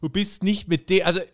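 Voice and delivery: lightly hammed-up lofty outrage; half-hearted pompous Cole; mock pompous. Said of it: "Cole meint".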